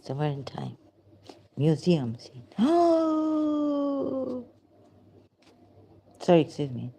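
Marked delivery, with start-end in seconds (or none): 2.6-4.5 sharp high gasp of shock; real startled oh. Real, not acted. Startled by a portrait. 6.2-6.9 loud, falling sorry; plain loud excuse me; loud apology. Real, not acted. Apologizing aloud in museum.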